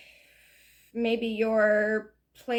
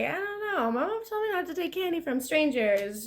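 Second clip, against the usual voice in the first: lightly voiced wary child, higher pitch; a hint of a doubtful kid, pitched up; skeptical kid; 5 semitones higher than usual. Kid turning down candy from strangers, skeptical. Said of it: "this kid looks kinda skeptical".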